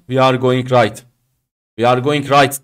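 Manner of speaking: "We are going right" run together with no questioning lift on "right"; toneless wrong demo. Shown as a demonstration. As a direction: say "We are going right" as one wooden statement. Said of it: "Böyle samut gibi konuşmayacaksın". ("We are going right" vurgusuz, tonlamasız, düz cümle gibi)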